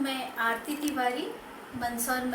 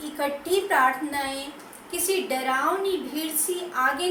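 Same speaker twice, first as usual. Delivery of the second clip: measured poetry reading, phrase by phrase with pauses; poem recitation. Acted. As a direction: recite the verse with deliberate lilting emphasis.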